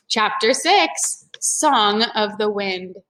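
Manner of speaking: slow announcing read; chapter title. Acted. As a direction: announce the new chapter slowly.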